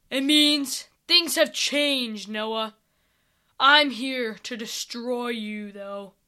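slow, lightly voiced threatening king; menacing villain. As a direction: drag out the threat like an evil ruler.

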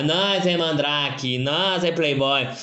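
drawn-out dumb boast; slow mock boast. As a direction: drag out the words slowly. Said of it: "nesse tipo de pessoa". (devagar, imitando o Mandrake)

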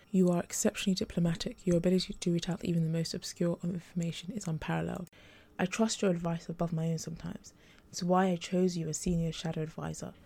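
lightly gentle, understated; gently. Acted. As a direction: soften it as if breaking bad news kindly. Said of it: "he said gently".

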